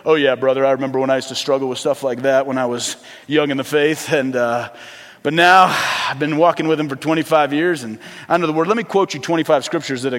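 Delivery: a hint of a self-satisfied veteran believer; mock pious brother; smug church talk. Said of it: "started talking like this in church".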